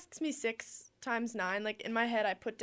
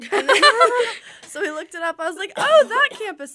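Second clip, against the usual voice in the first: laughing through the story, pitched up; telling how she found Auburn while laughing; 10 semitones higher, 17 dB louder than usual. Real, not acted. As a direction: giggle out the memory, bright and loud. Laughing while retelling discovery.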